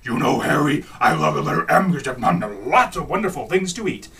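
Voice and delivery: lightly voiced Cookie Monster; a hint of the Cookie Monster voice. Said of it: "He's like".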